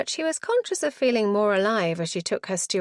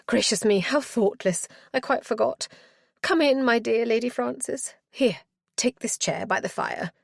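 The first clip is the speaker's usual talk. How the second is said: put-on high, fluttering, flustered old matron; 3 semitones higher than usual. Matron greeting her lady visitor, high and flustered. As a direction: gush over the guest in a high flustered voice.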